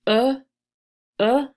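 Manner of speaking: "uh" isolated and repeated, with a gap; reduced vowel sound. Shown as a demonstration. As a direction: demonstrate the weak vowel "uh" on its own. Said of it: "is easier".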